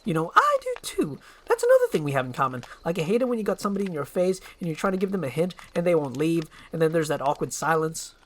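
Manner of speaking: a motor-mouth sidekick gushing praise; fast-talking eager donkey. Acted. Donkey rambles on.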